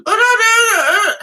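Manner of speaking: high, slow, tearful little creature; little pet voice. Retold or imitated. Her pet calling from the storage box, tearful squeak. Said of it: "this little voice saying".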